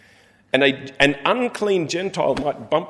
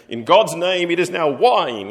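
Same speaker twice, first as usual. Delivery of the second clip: louder, solemn mock pronouncement; mock proclamation; 4 semitones higher, 5 dB louder than usual. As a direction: proclaim it like a ceremony, half in jest. Imagined ceremonial proclamation.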